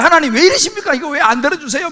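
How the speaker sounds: mock complaint to God. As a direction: act out a believer protesting to God. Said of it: "우리 때로 막 원망도 하고요". (하나님께 투정하듯 원망하는 말투)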